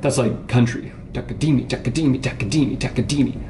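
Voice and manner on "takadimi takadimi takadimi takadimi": "Takadimi" with the third syllable DI accented; stress on DI. Shown as a demonstration. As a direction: chant takaDImi, leaning on "di". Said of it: "we put it on the third".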